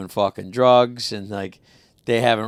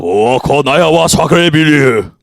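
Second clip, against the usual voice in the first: put-on blended Japanese and French accent; mock Japanese-French accent; 5 dB louder, slower than usual. Mashing up languages for friends, mock Japanese-French accent. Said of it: "Japanese French?".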